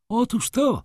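very high triumphant cry; baroness exclaiming. A narrator's reading. Baroness seizes on the judge's question, high exclamation. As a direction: call out, pitched right up. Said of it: "zawołała baronowa".

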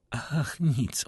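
high, faint lady's voice; with effort. A narrator's reading. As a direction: say it weakly, as if it costs some effort. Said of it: "odrzekła z wysiłkiem".

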